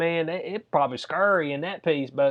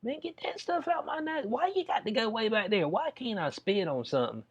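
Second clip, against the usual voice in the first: higher, whiny protest at the nurse; mock complaint; 4 semitones higher than usual. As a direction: squirm through a nose swab. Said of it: "I was like".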